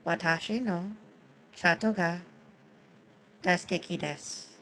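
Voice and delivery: slow Japanese demo, each mora separate, no blended syllables. Shown as a demonstration. Slowing the Japanese down for chat, carefully paced. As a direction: spell it out slowly for chat. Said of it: "I'll say it slower".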